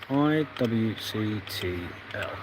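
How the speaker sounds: each letter of I W C T L spaced out slowly and softly; slow spelled dictation. Shown as a demonstration. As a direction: read I W C T L letter by letter while typing. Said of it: "that would help if I read the installer".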